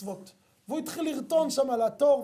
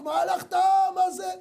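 higher, angry yell at the man in line; retold shout; 7 semitones higher, 5 dB louder than usual. Angry customer yelling at the yeshiva student, raised voice. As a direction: bark it out like an impatient shopper. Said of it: "מתחיל לצעוק".

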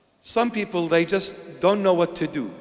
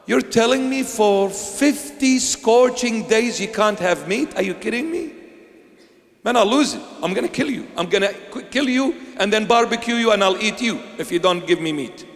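high, loud mock rage over meat; mock outrage; 5 semitones higher, 3 dB louder than usual. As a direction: ham up a hungry tantrum. Mimics someone denied meat.

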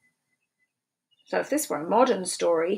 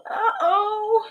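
high uh-oh with a giggle; giggly cartoon uh-oh; laughing uh-oh; 13 semitones higher than usual. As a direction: laugh through the oops. Refrain with a laugh.

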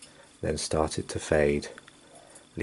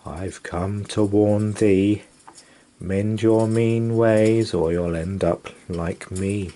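ghost warning; 3 dB louder than usual. Acted. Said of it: "wailed the ghost".

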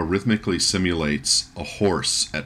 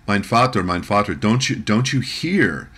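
put-on panicked boy; 3 semitones higher, 4 dB louder than usual. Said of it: "he's even more panic".

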